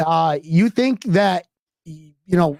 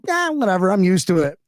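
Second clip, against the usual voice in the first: shrugging indifference. Retold or imitated. Host shrugging off the losses, indifferent shrug. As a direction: brush it off with a shrug. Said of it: "I'm like".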